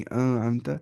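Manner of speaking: अमता with the n blurred into a long hum; wrong nasal hiding. Shown as a demonstration. Teacher repeating the mistake, nasalised noon before अमता. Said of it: "अमता नहीं".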